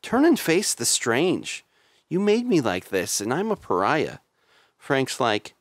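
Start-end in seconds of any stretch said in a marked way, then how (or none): 0.0-4.2 creature voice. Retold or imitated. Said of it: "The creature says".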